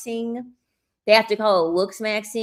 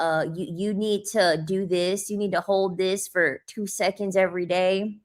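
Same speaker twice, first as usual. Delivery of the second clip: mock looksmaxer advice. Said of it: "That's how they fucking sound".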